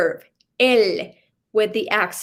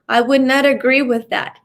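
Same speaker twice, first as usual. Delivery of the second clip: teasing aside; 2 semitones higher, 3 dB louder, faster than usual. Real, not acted. Joking aside after the example.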